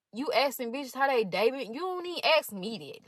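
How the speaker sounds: affronted, pitch climbing on the comeback; indignant reaction. Real, not acted. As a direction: call him out, voice rising in indignation. Reacting indignantly to his texts.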